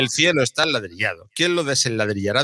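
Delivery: careful tongue twister; measured, deliberate recitation. Real, not acted. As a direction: pick through each word without tripping.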